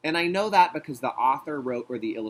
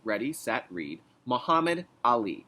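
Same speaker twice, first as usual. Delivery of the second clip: choral read cue. Shown as a demonstration. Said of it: "you can read with me".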